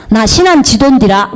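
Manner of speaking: put-on answering in her home Jeolla accent, stress on 신안; a light island-born Jeolla lilt; 전라도 사투리로 대답하듯이; Jeolla dialect. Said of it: "빨리 하면 막 전라도 말이 막 나와버려요".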